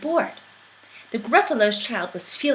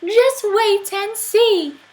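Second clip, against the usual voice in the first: high, slow teasing squeak; sly mouse; 11 semitones higher, 6 dB louder, slower than usual. Acted. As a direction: promise it slyly. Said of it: "then said".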